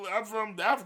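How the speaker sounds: quoted objector, high and loud; mock objector. Mocking an imagined objector.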